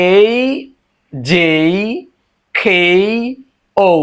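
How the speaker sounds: "এই", "যেই", "খেই", "ঔ" each held with its glide; separate, drawn-out models of "এই", "যেই", "খেই", "ঔ"; letter review drill. Shown as a demonstration. Teacher reviewing four letters, careful pronunciation drill. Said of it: "এই চারটা আবার দেখি".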